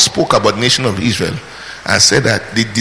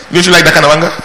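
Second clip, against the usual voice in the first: louder, higher, laughing rhetorical question; laughing repeat; 4 semitones higher, 5 dB louder, much faster than usual. Real, not acted. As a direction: toss it back to the crowd with a laugh. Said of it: "I think you should like that kind of anger".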